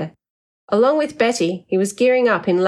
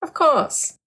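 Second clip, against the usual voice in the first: generous smile; 10 semitones higher than usual. A narrator's reading. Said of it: "smiled generously".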